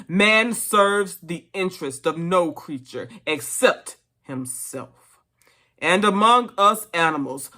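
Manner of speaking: stirring, emphatic political speech; rally the animals with measured, solemn conviction; orator pig Major. Acted.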